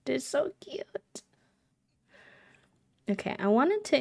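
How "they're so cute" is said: whispered, slow and soft. Real, not acted. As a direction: whisper it like they're asleep. Cooing over baby Sims.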